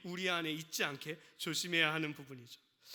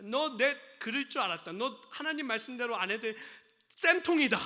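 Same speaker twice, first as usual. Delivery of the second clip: gloating taunt; 2 semitones higher, 4 dB louder than usual. Retold or imitated. Imagined gloating God.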